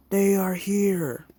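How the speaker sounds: high, slow, loud eerie voice; ominous warning. Acted. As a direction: announce it like a doom. Ominous robot announcement.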